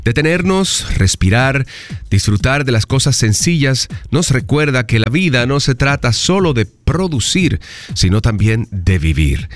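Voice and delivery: reflective reading. Acted. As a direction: read it like a calm thought for the day. Lee la frase del día. (lectura reflexiva y pausada)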